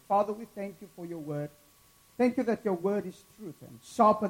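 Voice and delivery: earnest pastor's prayer. Acted. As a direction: pray sincerely over the church. Leads a prayer.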